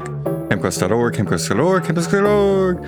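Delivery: rising each time; playful repeat. Acted.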